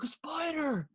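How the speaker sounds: high-pitched mock kid exclamation; imitated excited kid. Parent mimicking kid spotting a spider, high excited cry. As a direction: squeal it like a little kid pointing. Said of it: "every time a spider comes up, he's like".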